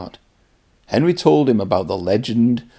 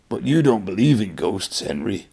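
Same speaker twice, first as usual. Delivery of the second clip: teasing. Acted. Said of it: "his fireman teased".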